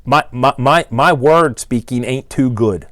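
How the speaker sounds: half-whispered, slow, sheepish mock customer; mock humble note to the engine builder; mock customer confession. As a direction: play a customer owning up to bad grammar, lightly voiced. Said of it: "you could start off and say".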